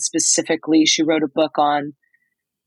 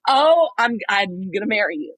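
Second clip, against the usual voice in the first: retold swooning; 4 semitones higher than usual. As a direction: swoon playfully over a crush. Retold swooning reply to charming man.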